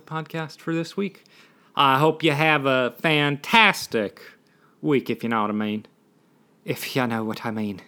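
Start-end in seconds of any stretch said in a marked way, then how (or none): 1.8-5.9 attempted Irish accent. Podcaster wishing listeners a good week, shaky attempt at Irish accent. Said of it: "supposed to be an Irish". 6.7-7.8 badly faked Irish accent; attempted Irish accent. Podcaster trying out accents, understated mock Irish. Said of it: "supposed to be an Irish".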